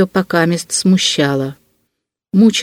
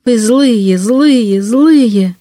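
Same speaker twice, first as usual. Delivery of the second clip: put-on higher, wailing childlike accusation; distraught reproach; 4 semitones higher, much slower than usual. A narrator's reading. Girl wringing her hands accuses the man, distraught. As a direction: repeat it in rising-and-falling swoops of distress.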